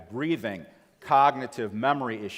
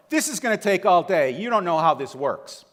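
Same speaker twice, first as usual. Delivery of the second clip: higher and much louder, furious impatience; escalating yell; 8 semitones higher, 10 dB louder than usual. Retold or imitated. Dealer escalates at the wife, a furious loud yell. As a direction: blow up at her even more. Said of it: "he escalated more".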